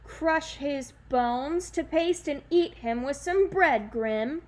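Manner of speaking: slow, loud grunting giant threat. Acted. The giant tells Granny his plans, a slow loud grunt. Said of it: "the giant grunted".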